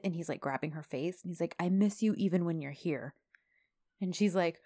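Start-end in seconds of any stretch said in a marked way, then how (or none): 1.6-3.1 slightly lowered imitation of a romantic lead; dropped voice. Man grabbing her face, imitated low intimate voice. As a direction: confide it in a gently dropped voice. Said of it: "His voice goes down, like, three octaves".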